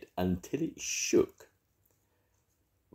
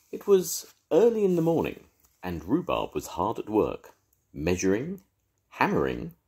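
lively read-aloud for little ones; storybook narration. A narrator's reading. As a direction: tell it like a grandad at bedtime. Grandad reads story to children.

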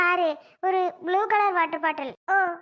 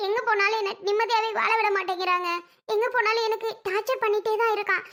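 distressed, slightly raised tearful voice; 3 semitones higher than usual. Acted. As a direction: pour out your troubles on the edge of tears. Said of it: "ஏன் அழுகுறீங்க இப்போ". (அழுகையோடு புலம்பல்)

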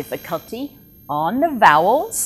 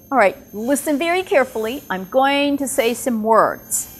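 teacher giving a listening task to students; teacher instructions; 3 semitones higher than usual. Shown as a demonstration. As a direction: talk to learners like a patient teacher. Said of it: "So I would say".

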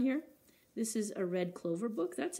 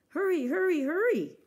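high, loud, pressing cries; urgent urging; 10 semitones higher, 8 dB louder than usual. Acted. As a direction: push them to run after the kite. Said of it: "urged Bear".

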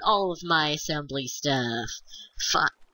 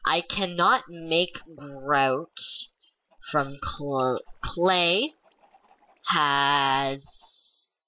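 whispering; much slower than usual. Real, not acted. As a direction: whisper it to yourself. Sudden whisper.

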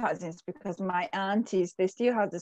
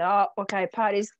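excited party call; 8 dB louder than usual. Retold or imitated.

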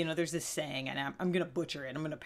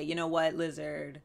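softer, kind voice for a pet lizard; gentle reassurance; 4 dB quieter than usual. Pretend. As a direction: comfort it like a friend who messed up. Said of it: "you'd say".

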